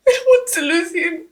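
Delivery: tearful, breaking plea; desperate weeping words; crying over losing her husband. Acted. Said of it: "Stop crying".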